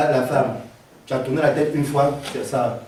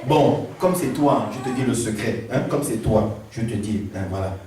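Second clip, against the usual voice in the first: Samson cède doucement; 6 semitones lower, 5 dB quieter than usual. Acted. Samson cède tout bas.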